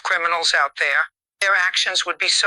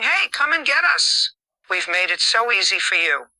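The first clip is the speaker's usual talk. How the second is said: taunting. Retold or imitated. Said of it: "as if they're taunting the police".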